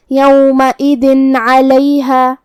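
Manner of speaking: یومئذ علیہا with a clear un sound before ع and no ghunna; izhar, clear nun. Shown as a demonstration. Teacher demonstrating izhar in یومئذ علیہا. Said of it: "تنوین ظاہر کریں گے اور اسے نون ساکن پڑھیں گے".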